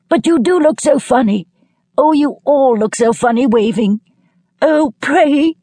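very high-pitched, giddy calling; helplessly amused cry. A narrator's reading. Lilia calls to the waving party as she leaves, helplessly amused. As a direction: call back high, as if overcome by the absurdity. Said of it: "And laughing helplessly".

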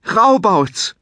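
ringing shout of a name. Acted. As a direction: call across the sky to his brother. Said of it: "schrie Munkel".

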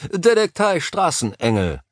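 tense, nervous. A narrator's reading. Nick answers his phone while waiting for news, tense and nervous. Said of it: "Seine Stimme klang angespannt, meiner Einschätzung nach sogar äußerst nervös".

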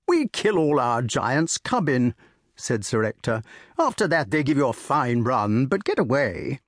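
jovial country squire offering port; bluff old squire. Acted. Sir Ector voiced in story.

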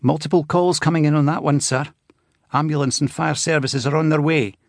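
steady dispatcher voice, calm and collected; calm young control room operator. A narrator's reading. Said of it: "sounded calm and collected".

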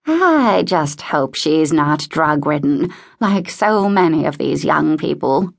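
lightly voiced old lady, slow and suspicious; a touch of prim disapproval, opening words drawn out; disapproving old woman. Voices disapproving Mrs Pembroke.

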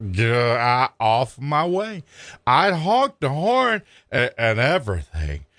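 put-on slow, whining drunken blubber; lightly bawled drunk. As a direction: blubber out excuses slowly. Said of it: "bawled Freddie".

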